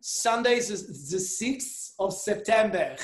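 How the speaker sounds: slow, careful Yiddish accent. Shown as a demonstration. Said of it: "It's easier in a Yiddish accent".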